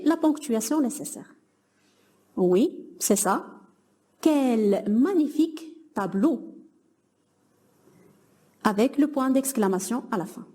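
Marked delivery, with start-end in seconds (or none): 4.2-6.5 slow, admiring "Quel magnifique tableau!"; a teacher modelling mild wonder; exclamation. Shown as a demonstration. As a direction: marvel at the painting, drawing it out. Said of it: "on exprime un sentiment".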